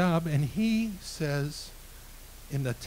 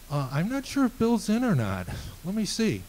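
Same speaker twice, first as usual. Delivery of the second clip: higher-pitched, put-on receptionist stalling; imitated phone screener; 6 semitones higher than usual. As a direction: stall the caller in a mock-polite lilt. Assistant pretends boss may be out.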